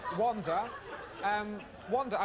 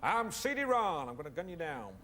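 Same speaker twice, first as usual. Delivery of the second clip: put-on mild American action-hero accent; a lightly done American movie hero. Auditioning an American accent for the director. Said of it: "I can do American accent".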